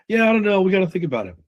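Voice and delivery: high, hesitant prospect brushing it off; prospect objection demo. Shown as a demonstration. Sales coach voicing a stalling prospect. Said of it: "So it sounds like this".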